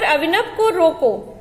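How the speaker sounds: slow "अभिनव को रोको", broken off after "रोको"; pause after रोको. Shown as a demonstration. Teacher pointing out the comma to pupils, stopping after "रोको". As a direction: read it slowly and stop right after "रोको". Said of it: "उसके बाद यहाँ पर चिन्ह लगा है".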